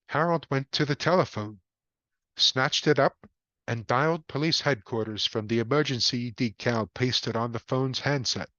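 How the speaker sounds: ordinary delivery, nothing marked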